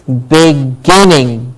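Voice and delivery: "beginning" slowly, weight on GIN; slow "beginning" with a strong middle syllable; stress on GIN. Shown as a demonstration. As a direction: say "beginning" as big, GIN-ning, stretched. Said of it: "Gin gets the stress".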